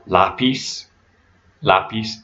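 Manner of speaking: "lápiz" stressed on the A; Spanish "lápiz", first syllable stressed. Shown as a demonstration. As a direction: say "lápiz" with weight on lá. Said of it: "accent on the A in the first syllable".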